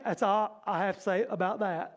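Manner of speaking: lightly voiced movie-character impression; Forrest Gump. Preacher quoting Jesus as a movie line, light Forrest Gump impression. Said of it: "he pulls his Forrest Gump".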